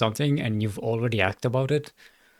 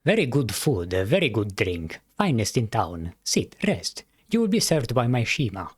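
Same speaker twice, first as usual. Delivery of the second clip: cat innkeeper. Acted. Innkeeper welcoming a traveler, lightly voiced cat host.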